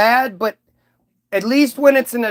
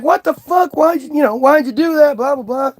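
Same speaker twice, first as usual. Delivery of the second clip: much higher, indignant mock what the fuck; outraged Mary; 6 semitones higher than usual. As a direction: play Mary shocked by the suitor. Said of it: "And she's like".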